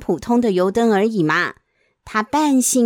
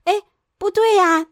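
higher startled realization; surprised; 7 semitones higher than usual. Acted. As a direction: catch the mistake suddenly. Finds the lamp.

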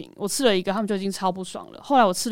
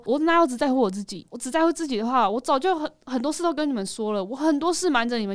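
breaking-down protest; 4 semitones higher than usual. Retold or imitated. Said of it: "然后我就开始崩溃".

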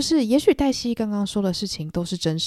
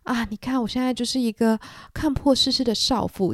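playing the world-weary young wife, pitched higher; mock tragic heroine; 5 semitones higher than usual. Daisy posing as a tragic heroine for Nick, mock-dramatic. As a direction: ham up the tragic heroine act. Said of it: "把自己放在一个悲剧女主角的这个盒子里面去表演说".

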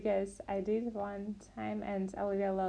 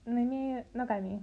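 fast tongue twister; much faster than usual. Shown as a demonstration. Learner rushes the Polish twister to finish it fast. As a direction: rattle off "wywanymi nogami" quickly. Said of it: "And fast".

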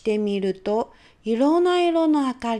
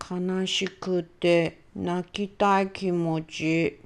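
sad; 5 semitones lower, much slower than usual. Acted. Child answers sadly.

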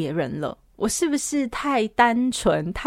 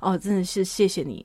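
soft consoling; 4 semitones lower, 5 dB quieter than usual. Retold or imitated. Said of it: "我还安慰他".

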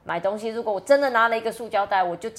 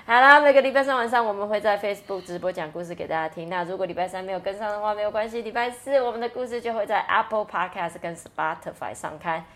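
all in one breath. Real, not acted. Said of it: "妈咪一口气念完了".

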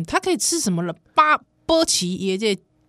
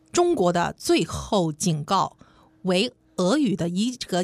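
put-on slow, official Beijing accent reading; 2 semitones lower than usual. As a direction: read it slowly like a Beijing party secretary. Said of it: "这个北京腔讲这句话".

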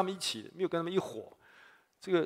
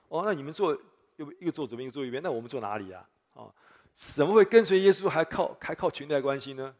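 indignant grumbling; 4 dB louder than usual. Retold or imitated. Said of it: "其他十个门徒就很生气哦".

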